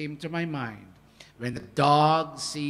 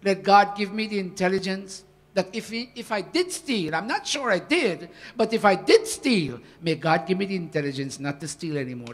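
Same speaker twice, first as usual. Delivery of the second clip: humble pleading reply; 4 dB louder than usual. Retold or imitated. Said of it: "But if you can say".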